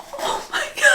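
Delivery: tiny high, whispery squeal; overwhelmed squeak. Real, not acted. Vlogger getting emotional over new books, squeaking. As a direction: squeak it softly, close to crying.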